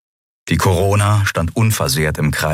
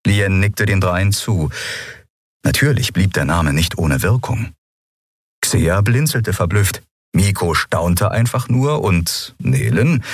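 usual speaking voice

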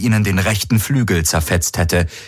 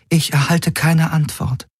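raised, otherworldly alien voice; eerie alien Helix; 8 semitones higher than usual. Acted. The alien Helix warns Garland's crew, cool and otherworldly. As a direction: speak like a detached alien intelligence. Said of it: "sagte die Helix".

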